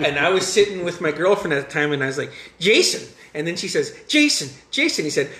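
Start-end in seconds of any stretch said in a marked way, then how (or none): 2.6-3.1 higher, louder reenacted blurt; excited blurted answer. 4.1-5.1 much higher mimicry of an excited girlfriend; eager mimicked answer.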